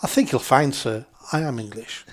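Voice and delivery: lightly imitated polite English accent; Hugh Grant accent. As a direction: politely correct him in a mild mock English accent. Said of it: "in my best, uh, Hugh Grant accent".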